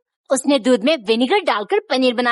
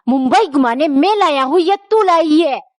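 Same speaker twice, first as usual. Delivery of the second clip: slap back a stern retort; angry husband; 2 semitones higher than usual. Acted. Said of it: "पति को गुस्सा आ गया".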